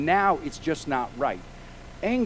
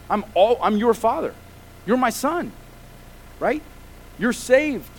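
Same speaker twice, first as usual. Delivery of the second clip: frustrated but committed father; 3 semitones higher than usual. Acted. God voiced as committed father.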